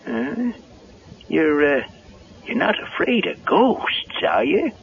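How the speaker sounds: put-on high, rustic old handyman voice; Digger the handyman. Caretaker startled by Linda at the barn door, high rustic voice. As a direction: play a jumpy country caretaker. Digger asks about ghosts.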